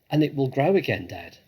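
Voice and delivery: a hopeful cub asking; small fox cub. Acted. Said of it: "said one of the small foxes".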